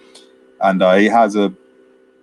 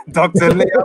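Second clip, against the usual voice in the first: mock shouting a name across the lake, higher and louder; yelling out a name; 7 semitones higher, 4 dB louder than usual. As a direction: call him out at the top of your voice. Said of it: "he just starts yelling out".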